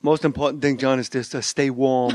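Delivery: slow, lightly voiced doctor's advice; a mild take on the doctor, slow and deliberate; Doctor Lou. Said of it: "That's what Doctor Lou tells me".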